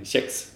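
"Kex" with a soft tje-sound, drawn out. Shown as a demonstration. Guest answering with own variant, soft tje in "Kex". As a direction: say "Kex" slowly as "tjex". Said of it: "kex eller kex".

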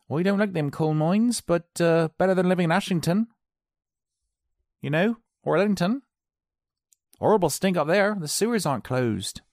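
high-pitched gossipy complaint; grumbling villager. Acted. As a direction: play a local running down the next town. Acted local grumbling about neighbouring villages.

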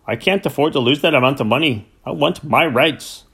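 a lightly voiced Yorkshire farmer pleading his loss; aggrieved farmer. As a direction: complain like a stubborn farmer wanting his money. Farmer Cranford complains to vet.

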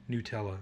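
Nutella said "new-TELL-uh"; "new" pronunciation. Shown as a demonstration. Mocking friend's version, Nutella as "new-TELL-uh". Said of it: "why would you call it".

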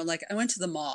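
lazy creaky vocal fry, Kardashian style; vocal fry demo. Shown as a demonstration. Demonstrating vocal fry to the podcast host, creaky and lazy. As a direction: let the voice creak and drag at the ends. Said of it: "vocal fry".

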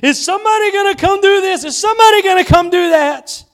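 high, fast, exasperated complaining; imitating an anxious, put-upon worker; mock frustrated whine. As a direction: whine like someone fed up doing all the work. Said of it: "When you get so mad and frustrated".

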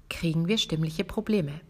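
ordinary talk, nothing marked

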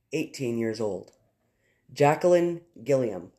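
slow, solemn reading of names and ages; memorial reading. Real, not acted. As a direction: honor each victim, unhurried. Reads victims' names in memorial.

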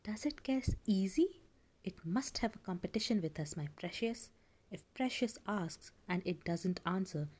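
hissing creepy creature whisper; sly, wheedling little creature; Gollum voice. Acted. Gollum voice held in story.

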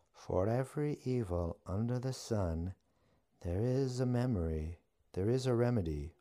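high chanting witch voice; witch reciting. A narrator's reading. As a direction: recite it like an old spell, pitched high. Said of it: "as she recited".

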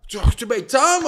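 retold reply. His own retold reply in quarrel.

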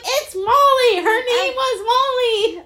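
very high, loud triumphant yell; retold scream. Teacher finally recalls a forgotten student's name, screaming it. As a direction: shout the remembered name, stretching it out. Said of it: "Like, screamed it".

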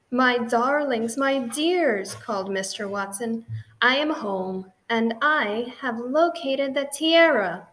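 a loud call across the house. Acted. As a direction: announce yourself proudly from the door. Husband calling out arriving home.

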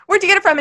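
"get" punched in a high-pitched question; pointed emphasis. Retold or imitated. Repeating her text question about the wallet, pointedly emphasized. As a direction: retell it with exaggerated stress on "get". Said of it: "Don't passive aggressive emphasize me".

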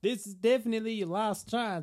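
high, loud put-on voice; high and loud, playfully acted. A put-on voice in banter.

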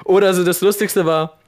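fuzz distortion. Real, not acted. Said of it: "du übersteuerst".

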